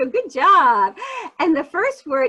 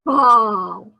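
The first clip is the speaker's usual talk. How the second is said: loud together; 3 semitones lower, 4 dB louder than usual. Shown as a demonstration. Teacher leading kids to shout Ball together loudly. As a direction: belt out the word Ball with the class. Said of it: "say that all together nice and loud".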